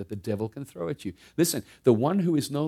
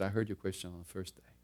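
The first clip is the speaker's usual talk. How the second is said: gentle voice; 2 semitones lower, 10 dB quieter than usual. Retold or imitated. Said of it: "gentle voice of the Holy Spirit".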